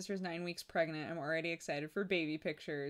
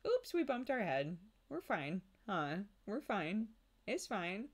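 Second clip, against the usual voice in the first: soothing downplay; 5 semitones higher than usual. Retold or imitated. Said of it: "really downplay".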